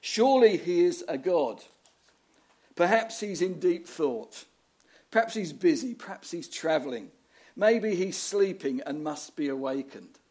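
taunting. Retold or imitated. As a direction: goad them like a scornful prophet. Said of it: "Elijah starts to taunt them".

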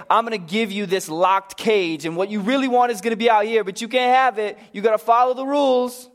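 preacher mocking a strict god; mock rule-giver. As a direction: rattle off the rules like a strict jailer. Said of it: "He doesn't say".

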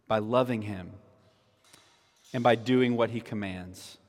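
spaced out, phrase by phrase; slow catechism answer. Shown as a demonstration. Pastor reciting catechism answer for children, slow and spaced. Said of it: "how can you glorify God?".

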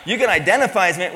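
punched out loud and fast. Shown as a demonstration. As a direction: fire it off as the punchline. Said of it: "I could have just said".

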